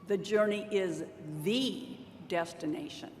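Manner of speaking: "the" set apart by pauses before "destination"; stress on the. Shown as a demonstration. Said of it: "listen to these four different ways".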